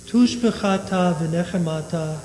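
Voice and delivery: steady liturgical chanting of Kaddish; prayer recitation. Acted. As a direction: recite the Aramaic prayer evenly.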